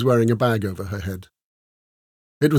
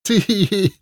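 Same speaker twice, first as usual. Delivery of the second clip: high-pitched, spoken "tee hee hee"; mock girlish giggle; simpering titter; 10 semitones higher, 4 dB louder than usual. A narrator's reading. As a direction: titter like a silly, tipsy chicken. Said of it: "simpering and tittering".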